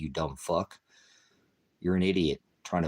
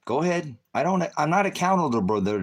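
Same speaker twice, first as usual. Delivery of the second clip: high angry outburst; 8 semitones higher, 4 dB louder than usual. Real, not acted. Shouting back at commenter.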